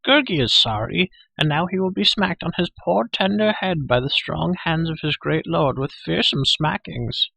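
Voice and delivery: high-pitched piteous creature voice; wailing Gurgi. A narrator's reading. Creature grovelling before his great lord, wailing. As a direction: whine and wail, high, then ease off. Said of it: "the creature wailed".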